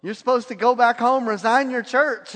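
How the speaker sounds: imitating an insistent prophet; mock prophecy. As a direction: proclaim it like a self-appointed prophet. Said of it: "the guy prophesied and says".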